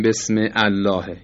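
بسم الله split, sounding the a that opens الله; unjoined hamza. Shown as a demonstration. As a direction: say بسم, then الله with its own initial hamza. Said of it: "نمیگیم".

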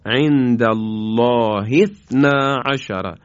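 عند الله اثنا عشر said slowly, with اثنا joined to the word before; Quranic recitation demo. Shown as a demonstration.

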